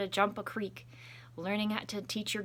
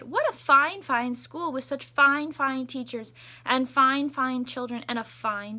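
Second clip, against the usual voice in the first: higher, louder, slow admiring praise; 5 semitones higher, 8 dB louder than usual. Acted. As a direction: gush about the school. Townspeople praising.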